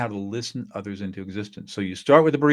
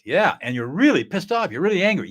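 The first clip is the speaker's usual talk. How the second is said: louder, rising irritation; upset person; 7 semitones higher, 4 dB louder than usual. Retold or imitated. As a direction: let the anger come out. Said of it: "this upset person".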